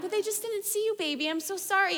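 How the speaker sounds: high-pitched, consoling parent voice; holding back tears. Retold or imitated. Mom consoling her snubbed three-year-old, tender and holding back tears. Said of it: "trying not to cry".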